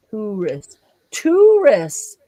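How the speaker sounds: "tourist" said as TOO-rist, like "zoo"; "tourist" with a long oo, as in zoo; Australian pronunciation. Shown as a demonstration. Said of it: "as in a zoo, to".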